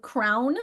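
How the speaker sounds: slow crayon squeezed to one syllable, like crown. Shown as a demonstration. Teacher to class, slow one-syllable crayon like crown. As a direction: say crayon so it sounds just like crown. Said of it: "pronounced like crown".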